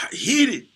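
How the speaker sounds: heated punched high and loud; heated, shot up and hit hard; stress on heated. Real, not acted. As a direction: throw the word heated up high with force. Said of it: "Charlie was, like".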